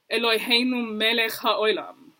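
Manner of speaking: "Eloheinu melech haolam" with the Ashkenazi "oi" in "haoilam"; Ashkenazi Hebrew imitation. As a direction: mimic the Chabad friend's Ashkenazi vowels. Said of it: "And they would say".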